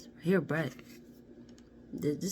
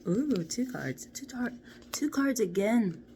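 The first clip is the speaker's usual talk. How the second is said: slow amazed hush; 5 semitones higher, 4 dB louder, slower than usual. Real, not acted. Reacting to tarot draw.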